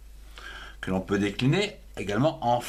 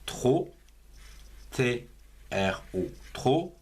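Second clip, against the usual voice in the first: slow dictation. Shown as a demonstration. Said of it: "La troisième syllabe".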